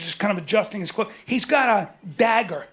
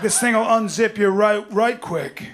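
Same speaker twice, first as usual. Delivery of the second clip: tough-guy boast. Retold or imitated. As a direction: play the buddy acting dangerous. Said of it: "He's like".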